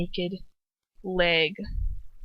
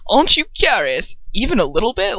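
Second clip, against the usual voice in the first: Ron coaxing, louder; coaxing retry; 4 dB louder than usual. Shown as a demonstration. Reader retrying Ron's curious question. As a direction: tempt her a bit more. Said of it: "I was like".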